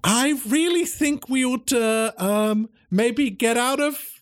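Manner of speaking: high, nervous stammer; nervous professor. Acted. Cat professor nervously urging the others to leave, high and stammering. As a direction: warn them, worried.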